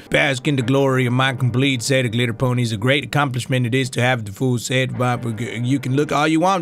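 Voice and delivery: a hint of a proud, guarded collector; pony collector, possessive. Collector showing off his complete set of glitter ponies, possessive.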